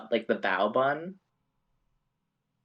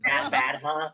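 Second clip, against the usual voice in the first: laughing disbelief; 6 semitones higher, 6 dB louder, slower than usual. Real, not acted. Player echoes in disbelief.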